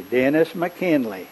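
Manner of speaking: slow, lightly imitated Southern drawl; imitating a friend's slow Southern greeting; real Southern. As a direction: stretch the name out Southern-style. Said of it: "It's real Southern".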